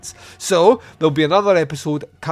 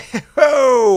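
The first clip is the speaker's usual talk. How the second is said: jolly laugh; 11 semitones higher, 8 dB louder than usual. Acted. Santa greets the deputy.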